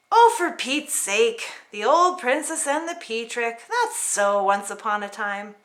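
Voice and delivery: a touch of a fed-up princess; Paulina exasperated. Acted. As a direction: grumble at the silly trick. Paulina's voice in the story.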